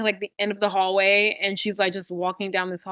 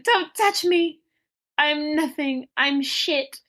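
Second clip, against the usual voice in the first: imitating a hurt girl; 6 semitones higher, slower than usual. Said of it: "Fern's like".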